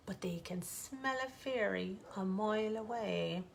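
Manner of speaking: whispered aside to the listener; hushed storyteller's secret. A narrator's reading. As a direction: lean in and whisper it.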